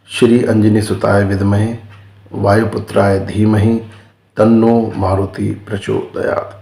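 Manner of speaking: mantra spoken phrase by phrase, with pauses between; slow dictation. Shown as a demonstration. Teacher repeating the mantra so viewers can learn it, slowly and phrase by phrase. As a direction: slowly spell it out so they can follow. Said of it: "ये हनुमान जी की गायत्री है".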